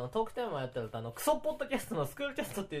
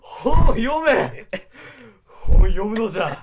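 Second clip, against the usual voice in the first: shouting; 6 semitones higher, 16 dB louder, much slower than usual. Pretend. Scolding guest to read books.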